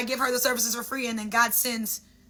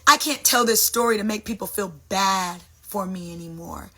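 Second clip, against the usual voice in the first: lower, matter-of-fact voice of God; God answering; 4 semitones lower than usual. Acted. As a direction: answer low and even, as God. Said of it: "God would be like".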